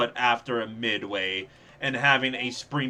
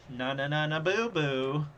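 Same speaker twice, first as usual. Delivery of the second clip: put-on childish taunt; 2 semitones higher, 3 dB quieter than usual. Taunting chat.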